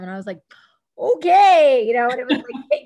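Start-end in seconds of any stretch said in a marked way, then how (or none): 1.0-1.8 high, loud, eager okay; game on. Retold or imitated. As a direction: accept the challenge with gusto. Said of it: "game on".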